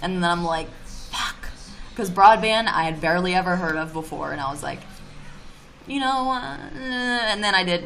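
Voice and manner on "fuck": whispered curse. Retold or imitated. Retold dismay at bad news.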